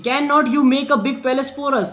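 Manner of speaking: reads each word slowly, spaced out; slow reading aloud. Shown as a demonstration. Teacher dictating the English line slowly for students. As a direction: spell the sentence out slowly for the class.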